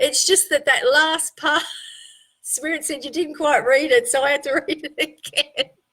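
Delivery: talking while laughing through the words. Apologizing to Craig after reading his message, laughing while talking. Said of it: "I'm sorry that I am laughing at you".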